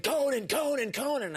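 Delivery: high, called across the carpet; high calling voice; photographer calling out. Retold or imitated. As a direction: call the name to get his attention. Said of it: "this photographer is like".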